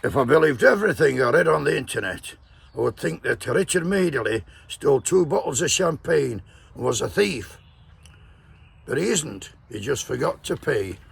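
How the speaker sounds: put-on doing a Scottish accent on a quoted tweet; hint of a put-on Scottish accent. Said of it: "And this is my Scotch accent".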